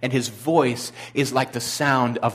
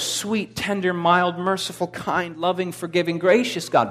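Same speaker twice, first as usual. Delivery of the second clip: mock-sweet listing; 4 semitones higher than usual. Mocking a soft view of Jesus.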